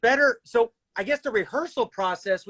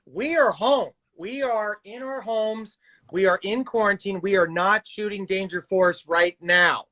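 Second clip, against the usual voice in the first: "we are home" in separate, emphatic words; perfectly clear. Real, not acted. Host sets fans straight on quarantine, deliberate and emphatic. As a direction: spell out "not shooting" deliberately, word by word.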